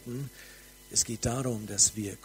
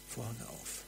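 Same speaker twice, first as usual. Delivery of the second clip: "Vorhang auf" whispered, much softer; 11 dB quieter than usual. Acted. Preacher inviting listeners into glory, whispered.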